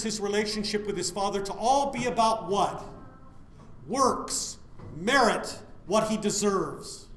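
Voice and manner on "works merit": ordinary delivery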